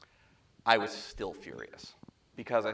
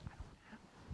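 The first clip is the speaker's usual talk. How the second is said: very soft, breathy under-voice; hushed caller on the phone; hushed reply; 20 dB quieter, much faster than usual. Retold or imitated. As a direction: say it barely above a breath, like a nervous caller. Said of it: "and he goes".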